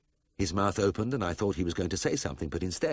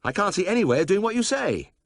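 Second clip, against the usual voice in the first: agitated protest; 11 semitones higher, 5 dB louder than usual. A narrator's reading. Protesting to the officials.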